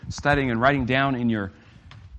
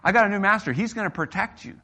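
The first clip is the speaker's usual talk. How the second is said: pretend retort; 8 semitones higher, 5 dB louder than usual. Retorting to the old master.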